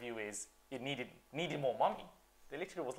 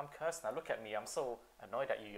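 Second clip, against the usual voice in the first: deadpan; 7 dB quieter than usual. Retold or imitated. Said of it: "He's like".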